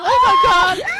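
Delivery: very high, loud mock scream; retold shocked cry. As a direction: shriek it as you act out your shock. Retelling own shocked reaction watching.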